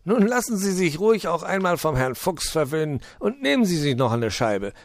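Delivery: high, loud, jolly fox coaxing; hearty fox, lightly laughing. Acted. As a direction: urge him on with a chuckle as the fox. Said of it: "lachte der Fuchs".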